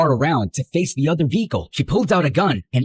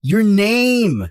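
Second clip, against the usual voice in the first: raised, higher-pitched outburst; exasperated yell; 5 semitones higher, 4 dB louder than usual. Acted. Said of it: "Don't yell at me".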